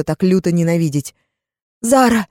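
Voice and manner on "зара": put-on girls calling out, raised voice; a child's glad cry of a name; mock call out. Girls calling out to Zara, raised voice.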